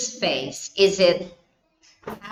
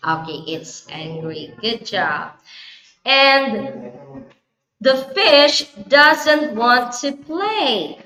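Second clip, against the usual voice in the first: put-on reading to a toddler. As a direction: read it like a picture book for a toddler. Storytelling to a young child.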